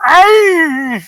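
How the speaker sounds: high yelped ow; elf yelp. Acted. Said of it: "And he goes".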